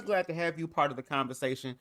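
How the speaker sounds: talking with a mouthful of food; eating while talking; mouth full. Real, not acted. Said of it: "I got some food in my mouth".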